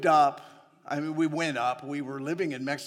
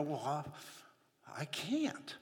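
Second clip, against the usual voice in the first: mock whiny excuse; 9 dB quieter, slower than usual. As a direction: play a fearful excuse-maker. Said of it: "and you go".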